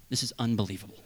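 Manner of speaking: scoffs through a laugh at a fallen brother; mocking laugh. Churchgoer scoffing at a trapped brother, with a laugh. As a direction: laugh it off in scorn. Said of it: "The church isn't supposed to go".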